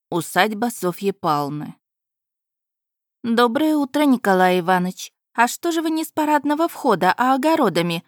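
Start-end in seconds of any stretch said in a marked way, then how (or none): 3.2-5.1 teasing. Acted. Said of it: "поддела молодого человека". 5.3-8.0 teasing. Acted. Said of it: "поддела молодого человека".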